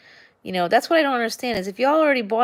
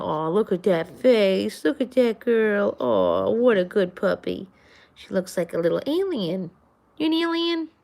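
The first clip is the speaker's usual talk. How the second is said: pet talk. Real, not acted. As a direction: adore the puppy. Cooing at her dog.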